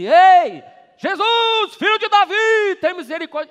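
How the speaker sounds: high, loud desperate cry for mercy; a blind beggar screaming for Jesus over the crowd; desperate shout. Acted. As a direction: shout it across the crowd to get noticed. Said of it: "Ele gritou tanto".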